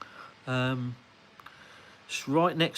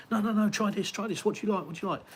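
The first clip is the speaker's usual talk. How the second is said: friendly Italian host; 7 semitones higher, faster than usual. Retold or imitated. Quoting the friendly pizza man.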